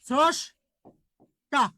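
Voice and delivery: স্রষ্টা split as "srosh... ta"; careful teaching split of স্রষ্টা, "srosh", pause, "ta"; syllable-by-syllable demonstration. Shown as a demonstration. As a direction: say স্রষ্টা slowly with a long break before "ta". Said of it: "তালবস্য হবে".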